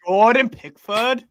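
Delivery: slow Scouse name-drop; Scouse accent. Acted. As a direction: linger on the name in mimicked Liverpool accent. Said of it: "All these accents we're mimicking".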